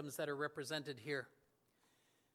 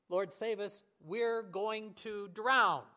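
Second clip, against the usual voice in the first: louder, drawn-out slow cry on drown; desperate plea; 5 dB louder, slower than usual. Acted. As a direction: cry it out as men afraid of drowning. Plea repeated with more force.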